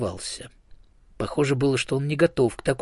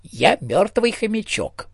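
slow, much higher hamster voice, kindly; friendly hamster; 11 semitones higher, 4 dB louder than usual. A narrator's reading. Hamster ghost politely repeating to the elephant, high and friendly. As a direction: repeat it sweetly in the squeaky hamster voice. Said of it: "приветливо повторил мёртвый хомячок".

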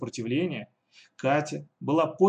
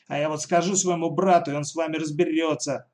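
mild shout; 4 semitones higher, 3 dB louder than usual. Acted. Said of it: "закричала Катя".

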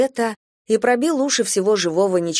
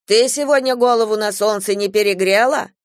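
venomous; 4 semitones higher, 5 dB louder than usual. Acted. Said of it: "ядовито поинтересовалась бабушка".

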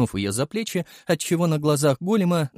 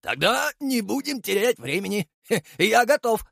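blurted out; 10 semitones higher than usual. A narrator's reading. Ognev agreeing to the job, eager. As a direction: blurt it out ready to go. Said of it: "выпалил Огнёв".

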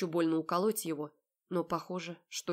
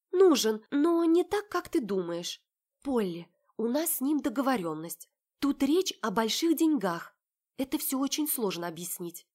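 higher, pleading explanation; defensive sister; 6 semitones higher, 5 dB louder than usual. Acted. Sister Olya defending herself to the heroine, higher and pleading. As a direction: rush to justify yourself.

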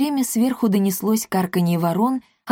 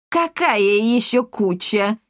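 indignant; 3 semitones higher, slower than usual. A narrator's reading. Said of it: "возмутилась Эсмеральда".

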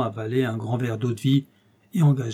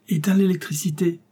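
called order; 5 semitones higher than usual. Acted. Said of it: "Il lui cria".

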